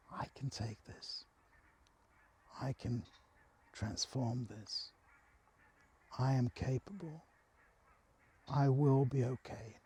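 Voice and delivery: soft breathy whisper, barely voiced; whispered self-assurance. Lying on the grass, whispering to herself that she'll be okay. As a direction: whisper it to yourself like a promise. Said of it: "continued saying what had started".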